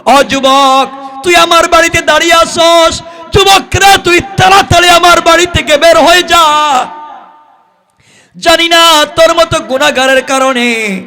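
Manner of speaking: very high, loud chanted shout; full-force chanted scolding, pitched far up; thundering preacher's rebuke. Acted. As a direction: drive the sinner out in a ringing sermon cry. Preacher voices Prophet's angry dismissal.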